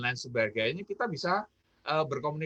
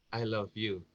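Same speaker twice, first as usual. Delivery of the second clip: low, quiet, muted declaration; understated second take; 7 semitones lower, 7 dB quieter than usual. Shown as a demonstration. Coach demonstrating the second example to listeners, low and subdued. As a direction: drop it down low and say it softly. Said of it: "yang kedua Anda ucapkan misalnya begini".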